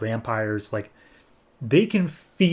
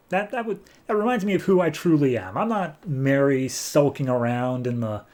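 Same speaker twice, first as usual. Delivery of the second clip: gloating. Acted. Mary gloats after the kill.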